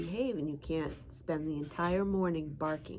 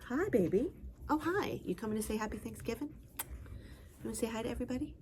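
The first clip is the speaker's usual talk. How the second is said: higher coo, hi to the dog; talking to the dog; 5 semitones higher, 4 dB quieter than usual. Real, not acted. Greeting her dog.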